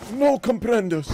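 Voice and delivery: "No comprendes" intoned like a spell, slow and grand; wizard spell intonation. Retold or imitated. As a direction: chant "No comprendes" as a wizard incantation. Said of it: "wizard spell".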